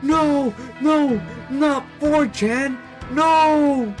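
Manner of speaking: very high falsetto wail; drawn-out, shrieky high protest; horrified pleading. Acted. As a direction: cry out in hammed-up horror. Onlookers horrified at Rudolph's threat.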